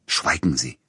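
a curt, cutting command; sharp rebuke. A narrator's reading. Composer silences his agent, curt and cutting. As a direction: snap the order shut. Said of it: "herrschte Peter Iljitsch ihn an".

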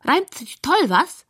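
high squeaky pig voice; squealing pig. A narrator's reading. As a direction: squeal it in a high-pitched rhyme. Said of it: "quiekt es von der Couch".

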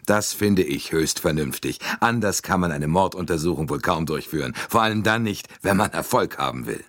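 lightly voiced confident American; a hint of a gum-chewing American; American agreeing to interrogation, breezy; brash American.

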